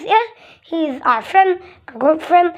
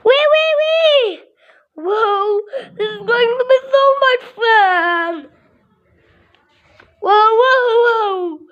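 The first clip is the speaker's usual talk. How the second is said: high, thrilled whoas and squeals; excited whoas; 4 semitones higher than usual. Pretend. Child voicing bouncing birds, high thrilled whoas. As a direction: ride the bounce with each whoa.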